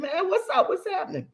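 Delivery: high, then fading to a soft "What's happening?"; playing Devin asking the boy what's wrong; Devin's voice. Mother imitating Devin greeting the sad son, high voice. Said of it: "And Devin said".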